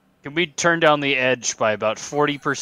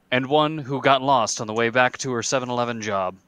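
epic narrator voice. Acted. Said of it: "in my epic narrator voice".

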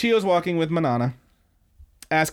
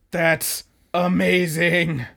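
slow, drawn-out amazement, pitched up; mock awestruck; 4 semitones higher, much slower than usual. Bleeding gangster tells the girl he is impressed, mock awestruck. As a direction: stretch it out in hammed-up admiration.

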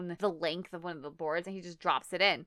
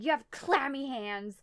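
higher mock-freaked-out voice; freaked-out wife; 6 semitones higher than usual. Wife freaked out at husband, higher mock voice. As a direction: imitate her disgust in a raised pitch. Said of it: "And she's like".

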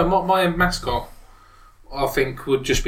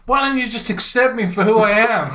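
mock emotional plea; 7 semitones higher than usual. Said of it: "just saying".

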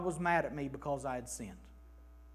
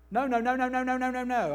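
a string of loud, hammered nos; repeated no, each one punched loud; emphatic no; 6 semitones higher, 8 dB louder, faster than usual. Shown as a demonstration. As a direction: pound every no home. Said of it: "as emphatic a no as could be written".

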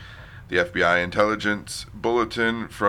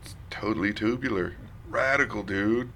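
put-on extreme hyped kids ad; 2 semitones higher, 5 dB quieter than usual. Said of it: "Keep it up and I'll leave".

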